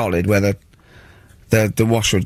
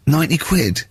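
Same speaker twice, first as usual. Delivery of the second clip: raised, incredulous question; mock disbelief; 4 semitones higher than usual. Locked-out mate balking at the locksmith's fee, incredulous. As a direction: echo the price in light shock.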